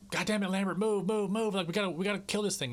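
hammed-up shout of move, move; mock crew yelling. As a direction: bark the order like a panicked crewman. Crew yelling at frozen Lambert.

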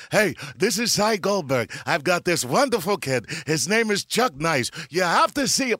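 overdone stereotype voice. Shown as a demonstration. Chuck showing the fake Cy voice he avoided, hammed up. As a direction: lay the old Jewish agent on thick. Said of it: "who talks like that".

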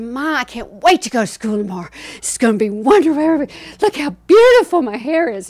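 put-on fast, high and loud childish gushing; breathless showing-off child; excited little girl. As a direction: gush like a kid who can't wait for school. Little girl boasting about new braids.

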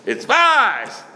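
high, loud emphatic yell; imitated screaming. Rabbi retelling a friend's ruling, imitated screaming. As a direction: belt out each word high, mimicking a screaming rabbi. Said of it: "Moshe Big screamed all the time".

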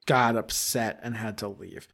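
low, soft dubious repeat; skeptical echo. Acted. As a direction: echo his excuse in disbelief. Mom repeats Leo's words flatly.

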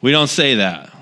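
lightly voiced upset father; mild imitation of dad correcting the kids. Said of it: "He would get very upset".

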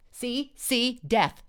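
mild triumphant shout. A narrator's reading. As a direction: cry it out to win the argument. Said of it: "shouted Jay".

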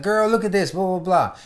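high-pitched mock girl talk; gossipy girlfriend. Ex-girlfriend to friend over a picture, mock gossipy. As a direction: imitate a girl excitedly showing her friend.

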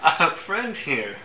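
startled wizard squeaking out a laugh; high-pitched squeak. Acted. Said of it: "lets out this high pitched squeak".

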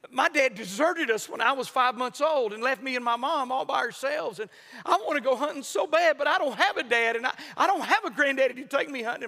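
a hint of a grieving teen; boy near tears. Sixteen-year-old boy telling preacher his loss, tearful. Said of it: "and he said".

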